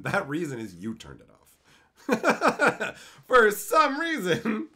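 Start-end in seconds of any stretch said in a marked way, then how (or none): 2.1-4.7 mocking laugh. Mocking repeat of the excuse.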